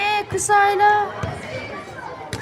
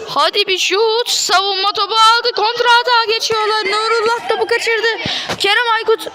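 excited commentator; 5 semitones higher than usual. Acted. Counterattack, commentator heats up.

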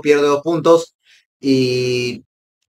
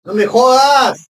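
angry disbelief; 8 semitones higher, 3 dB louder, much slower than usual. Real, not acted. Penalty cancelled for offside.

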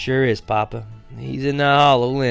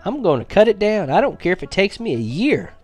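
higher, pushing harder toward a vow; earnest, rising plea; 8 semitones higher than usual. Acted. Boy explaining his bargain to Papa with rising earnest resolve. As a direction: insist with growing determination.

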